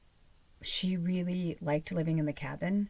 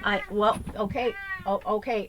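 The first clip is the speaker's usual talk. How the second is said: calling out; 3 semitones higher, 7 dB louder than usual. Real, not acted. Suddenly addressing pet off-camera.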